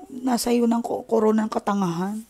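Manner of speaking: ordinary talk, nothing marked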